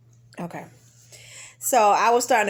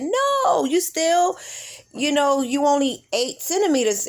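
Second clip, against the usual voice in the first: mock doctor voice; 4 semitones higher than usual. Doctor says not yet.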